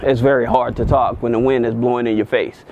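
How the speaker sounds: talking into strong wind; wind on mic. Real, not acted. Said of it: "because there's a lot of wind and everything".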